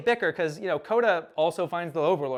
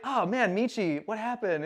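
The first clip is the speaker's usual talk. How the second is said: higher, innocent concerned voice; pitched-up naive worry; oblivious friend; 5 semitones higher than usual. Retold or imitated. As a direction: act out a clueless pal. Kota oblivious, asking his friend.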